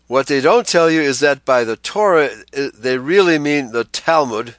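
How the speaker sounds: usual speaking voice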